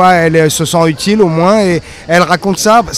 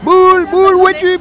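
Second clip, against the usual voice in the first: cartoon dad voice; 13 semitones higher than usual. Shown as a demonstration. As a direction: call out for the dog like a cartoon dad. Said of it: "je faisais le papa".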